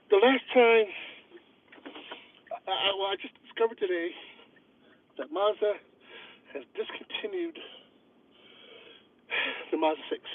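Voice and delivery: out of breath, talking between breaths; winded after walking, gasping for air. Real, not acted. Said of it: "Sorry, I catch my breath".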